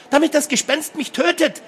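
very high, frantic whine; shrill wailing protest. A narrator's reading. Thirteen-year-old refusing to go downstairs alone, wailing. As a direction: wail back in outraged fear. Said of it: "zeterte die dreizehnjährige".

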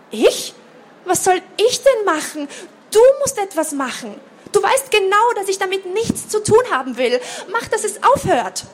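high, loud frantic pleading, a laugh breaking through; panicky pleading. A narrator's reading. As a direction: beg your sister to make it stop. Panicked girl pleading with sister. (panisches Flehen an die Schwester, hoch und laut)

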